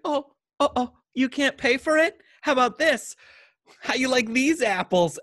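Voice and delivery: lightly voiced smug rich man; smug rich guy. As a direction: lord it over the cashier. Mocking imagined smug Tom Hanks.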